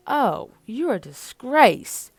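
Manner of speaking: slow, loud British disdain; slow posh British scoff; British accent. Acted. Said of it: "Mikhail is freaking British".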